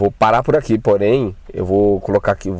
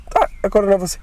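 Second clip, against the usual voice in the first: sarcastic retort; 10 semitones higher, much faster than usual. Retold or imitated. Mocking the friend's warning.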